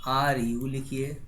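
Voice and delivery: option spelled slowly; teacher listing spelling options; slow dictation. Shown as a demonstration. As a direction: dictate each letter slowly. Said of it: "आप क्या लिखेंगे".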